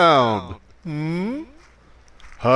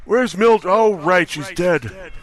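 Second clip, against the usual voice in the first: put-on halting, higher, wandering old-man voice; confused old candidate; 3 semitones higher than usual. Old candidate forgetting his own name, halting and confused. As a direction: lose the thread like a senile old man.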